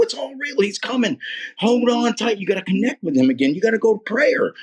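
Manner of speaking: high, fervent rallying cry; excited urging. Retold or imitated. Man urging a distressed woman back to prayer, excited. Acting out his excited witnessing.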